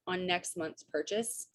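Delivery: PURCHASE tilted up like a question; question-like ending. Real, not acted. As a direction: end on "purchase" as if asking. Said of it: "I said that like a question".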